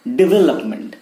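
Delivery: "डेवलपमेंट" with the stress on VEL; corrected pronunciation. Shown as a demonstration. Teacher correcting learners' word, corrected pronunciation. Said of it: "not development".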